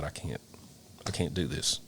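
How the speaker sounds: defeated murmur. Retold or imitated. Firefighter telling his captain he can't do this, softly defeated. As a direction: say it like you have nothing left. Retold breakdown after the fire.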